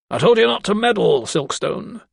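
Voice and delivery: a powerful patron chiding his protégé; scolding great man. A narrator's reading.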